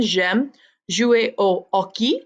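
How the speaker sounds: hockey said with no H, as ockey; French hockey with a silent H. Shown as a demonstration. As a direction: drop the H in hockey, French style. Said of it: "Notice how I didn't pronounce that H".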